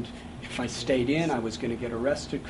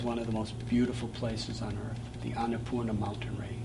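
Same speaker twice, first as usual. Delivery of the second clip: whispered; 4 semitones lower, 7 dB quieter than usual. Real, not acted. Whispered awe at the mountains.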